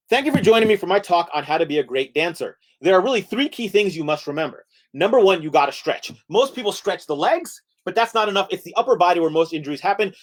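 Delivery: animated lecture against the clock; brisk, lively presenter voice; hurried mock lecture. Shown as a demonstration. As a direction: race through the talk's key points. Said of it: "this time in thirty seconds".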